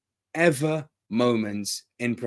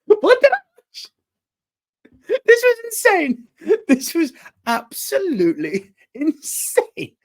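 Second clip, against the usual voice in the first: very high, loud, laughing disbelief; incredulous outburst; 6 dB louder than usual. Real, not acted. Fan reacting to a crazy match, incredulous. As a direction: squeal it, astonished and cracking up.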